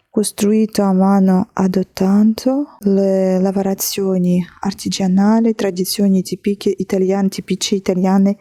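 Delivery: déchiffre le texte italien mot à mot; lecture à voix haute. Real, not acted. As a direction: lecture posée d'un certificat en italien, avec application. Reads the Italian certificate aloud. (lecture appliquée en italien)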